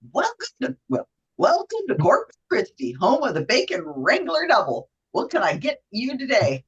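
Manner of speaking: lightly put-on sing-song clerk greeting; a hint of a perky order-taker, lilting up and down; drive-through clerk. Host playing drive-through worker greeting a customer, lightly put-on clerk voice. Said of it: "I'm using two different voices".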